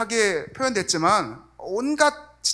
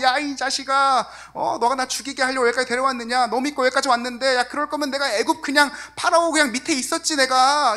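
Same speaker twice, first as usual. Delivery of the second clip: angry mob shout; 5 semitones higher than usual. Retold or imitated. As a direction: shake him and scream the blame. People shaking Moses, angry.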